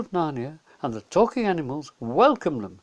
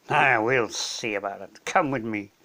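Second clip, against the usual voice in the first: lower, a lightly voiced menacing wolf; gruff wolf; 4 semitones lower than usual. Wolf takes Edmund to the Queen, low and gruff. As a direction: say it low like a beast weighing its prey.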